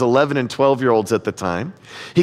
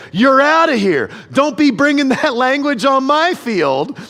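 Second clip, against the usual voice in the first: umpire ejecting a player; 9 semitones higher than usual. Retold or imitated. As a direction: throw him out of the game like a stern umpire.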